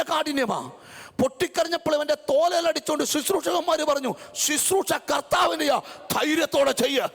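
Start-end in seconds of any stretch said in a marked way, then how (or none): 4.3-7.1 encouraging shout. Retold or imitated. Ministers encourage the weeping preacher.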